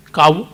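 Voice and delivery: kavu as two syllables, ka-vu; alternative pronunciation. Shown as a demonstration. Lecturer proposing another form of cow, kavu said ka-vu. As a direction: sound the V in kavu. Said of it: "why can't we say C A U V U".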